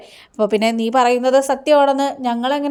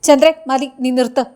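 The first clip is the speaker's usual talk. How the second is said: a retold, firm order to stop, louder on the name; half-acted husband snapping enough; mild angry stop; 3 dB louder than usual. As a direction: cut her off, a touch angry. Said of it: "രവീന്ദ്രന് ദേഷ്യം വരികയാണ്".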